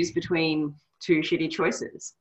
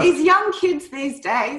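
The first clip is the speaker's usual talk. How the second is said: put-on slow, higher grumbling old man; mock an old man complaining; grumpy old man; 10 semitones higher, 4 dB louder, slower than usual. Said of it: "you sound like an old man".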